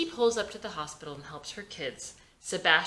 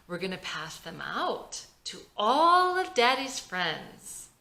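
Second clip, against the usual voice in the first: impatient; 3 semitones higher, 4 dB louder, slower than usual. Acted. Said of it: "Vicky's getting impatient".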